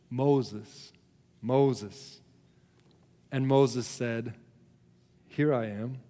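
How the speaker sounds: measured, solemn Bible reading with deliberate pauses; scripture reading. A narrator's reading. Preacher reads Moses and the burning bush to the congregation, measured scripture reading. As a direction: read the passage out to a congregation, letting phrases settle.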